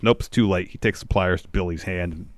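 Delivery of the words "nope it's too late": ordinary talk, nothing marked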